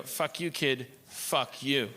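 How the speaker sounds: mild, level-pitched retort; lightly acted brush-off to a heckler; dismissive comeback. Comedian answers a Twitter heckler kid, dismissive. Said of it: "And I go".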